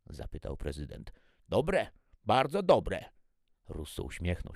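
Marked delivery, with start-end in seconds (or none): 1.5-3.0 high, loud, slow praise; delighted approval. A narrator's reading. Guests answering the president about the food, loud slow delight. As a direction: draw it out loudly with relish.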